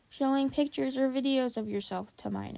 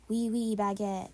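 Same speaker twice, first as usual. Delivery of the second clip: put-on American accent. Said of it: "only talk in an American accent".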